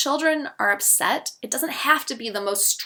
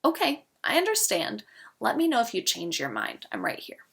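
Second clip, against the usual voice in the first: gentle reassurance. Shown as a demonstration. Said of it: "I would just say".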